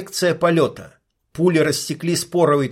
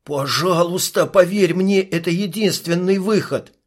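higher, mildly pleading; 5 semitones higher than usual. Acted. Intuit begging the sniper to trust him, pleading. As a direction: beg her to trust you. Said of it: "взмолился интуит".

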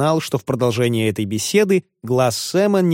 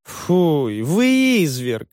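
higher, slow, appalled woman's cry; indignant landlady; 4 semitones higher, much slower than usual. A narrator's reading. Landlady rebukes cruel Wardle, appalled slow exclamation. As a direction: scold him, shocked and tender-hearted. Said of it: "воскликнула сердобольная хозяйка".

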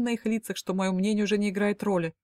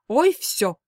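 demonstrative huff; 3 semitones higher, 6 dB louder than usual. Acted. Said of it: "демонстративно отвернулась мама".

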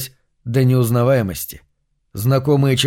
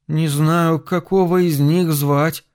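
desperate; 4 semitones higher, slower than usual. A narrator's reading. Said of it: "с отчаянием произнёс Чарльз".

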